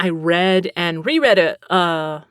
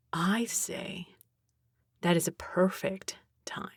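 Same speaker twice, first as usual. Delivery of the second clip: whispered Texan-free hush, softer; 11 dB quieter than usual. Pretend. Whispering a teasing segue to the audience, hushed. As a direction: lean in and whisper the segue to viewers. Whispered secret-word lead-in.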